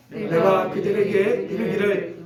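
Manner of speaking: drawn-out, even recitation for reading together; scripture read-aloud. Acted. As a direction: lead the congregation through the verse, phrase by phrase. Reads scripture aloud with congregation.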